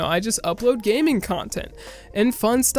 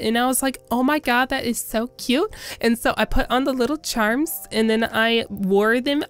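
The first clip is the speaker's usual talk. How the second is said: put-on lightly raised valley girl chatter; a hint of a gushing teen girl; woman voice; 2 semitones higher than usual. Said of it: "I could do sort of a woman voice".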